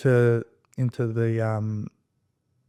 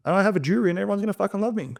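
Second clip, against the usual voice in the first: defiant threat; 8 semitones higher than usual. Retold or imitated. Lenny daring the lawyers with the Supreme Court, triumphant. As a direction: taunt them with a jury trial. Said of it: "I go".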